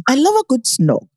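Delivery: imitated British accent drifting into Jamaican; British accent attempt, Jamaican-sounding. Shown as a demonstration. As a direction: copy a British accent, landing near island English. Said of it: "you sound real Jamaican with it".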